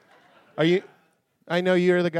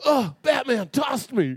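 cartoon villain voice; 9 semitones higher, slower than usual. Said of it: "his head would move, and it'd go".

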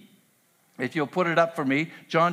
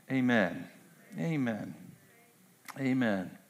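prayer. Acted. Pastor leads closing prayer.

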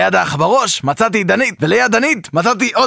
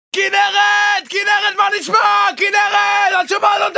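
high full-throated yell of her name; screaming at deaf girlfriend; 10 semitones higher than usual. Acted. Boyfriend yelling at his deaf girlfriend, high shouting. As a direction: scream it as if she could never hear you. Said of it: "אני יכול לצרוח כמה שבא לי".

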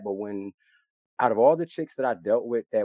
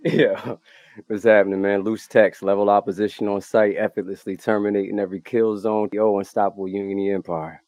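hype intro; 7 dB louder than usual. Acted. Podcast guest hype intro.

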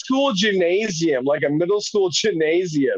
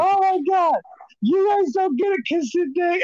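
dying laughing, imagined; 10 semitones higher than usual. Pretend. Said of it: "as I'm dying on the pews".

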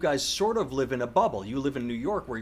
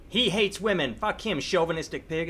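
mock outrage; 5 semitones higher than usual. Host parodying critics calling Newton sexist, mild mock fury. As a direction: sneer it like a scandalized critic. Mocking outrage narrative again.

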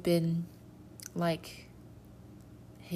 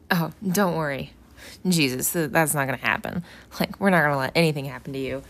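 confident reassurance; 2 semitones lower, 6 dB louder, faster than usual. Retold or imitated. First imagined Peter, reassuring Jesus.

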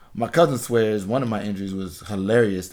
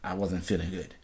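sheepish excuse; 5 semitones lower, 9 dB quieter than usual. Retold or imitated. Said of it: "I said".

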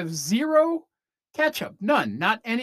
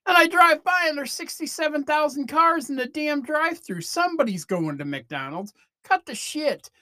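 louder and higher, fed-up outburst; exasperated rant; 9 semitones higher, 3 dB louder than usual. Real, not acted. Ranting at people who pretend to hate McDonald's, loud and exasperated. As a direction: vent it loud and high, like you're calling out hypocrites. Ranting at fast food hypocrites.

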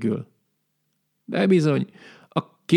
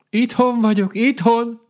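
higher, louder call from inside the house; 12 semitones higher, 3 dB louder than usual. A narrator's reading. Shopkeeper calling to the hedgehog at his window, higher loud call. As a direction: shout back from indoors. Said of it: "kiáltotta ki a boltos".

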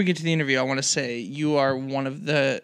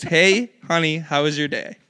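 put-on girl voice; 4 dB louder than usual. Shown as a demonstration. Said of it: "Do your best girl voice".

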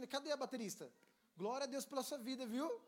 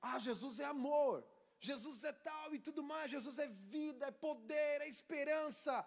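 higher, gushing; mock enthusiasm; 6 semitones higher, 4 dB louder than usual. Believers naively praising Jesus. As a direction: rattle off the nice clichés. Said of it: "nós pensamos que".

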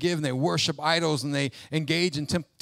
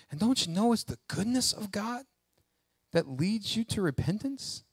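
soft, raised-pitch scripture question; gentle appeal; 5 semitones higher, 6 dB quieter than usual. Acted. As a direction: offer the verse softly. Gently quotes the verse as appeal.

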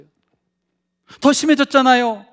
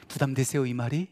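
ordinary talk, nothing marked

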